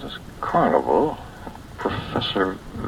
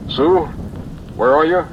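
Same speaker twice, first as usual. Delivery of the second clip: a loud, higher call into the dark; 8 semitones higher, 8 dB louder than usual. Acted. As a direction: shout for her across the blackness. Calling out in the dark.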